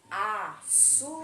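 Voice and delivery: açúcar drawn out, loud on "çú"; stress on middle syllable. Shown as a demonstration. Teacher quizzing pupils on paroxytones, stress on the "çú" of açúcar. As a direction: stretch and push the middle of açúcar. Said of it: "qual foi a sílaba mais forte?".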